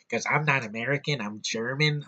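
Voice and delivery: mock German accent, lightly done; German accent impression. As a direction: imitate Christoph Waltz's German accent, a hint of it. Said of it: "he talks like this".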